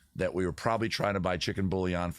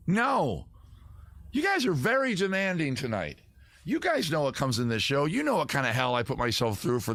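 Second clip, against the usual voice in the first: high-pitched, put-upon protest; mock indignation; 5 semitones higher than usual. Host to demanding chat viewers, mock indignant. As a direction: plead your case in exaggerated exasperation.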